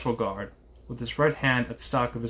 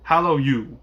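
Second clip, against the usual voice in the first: raised-voice hail; 2 semitones higher, 6 dB louder, slower than usual. A narrator's reading. Guard hailing the rider in the mist, calling. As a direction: call out loudly to someone far off.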